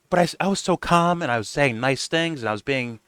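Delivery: a hint of a wounded whine; whiny mock innocence. Hosts pretending innocence to Nick, in a light mock whine. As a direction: play the innocent victim lightly. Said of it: "They're gonna be like".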